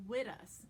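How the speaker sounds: "with us" as "wit us", almost a t; T instead of TH. Shown as a demonstration. Coach demonstrates for actors, "with us" with a T. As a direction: harden the th in "with us" toward a t. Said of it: "like a T almost".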